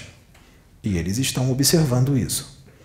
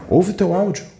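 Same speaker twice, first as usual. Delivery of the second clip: urgent command; 9 semitones higher, 4 dB louder than usual. Acted. Urging listener, higher and louder.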